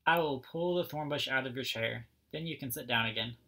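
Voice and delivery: lively storybook read-aloud, each character lightly voiced; reading to children. A narrator's reading. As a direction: read it like story time for little kids.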